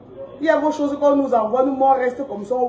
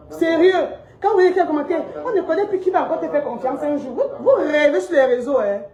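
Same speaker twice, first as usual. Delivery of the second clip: scoffing, laughing through the words; higher, laughing scorn; mocking laugh; 4 semitones higher than usual. Real, not acted. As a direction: laugh at them while you talk. Laughing at critics online.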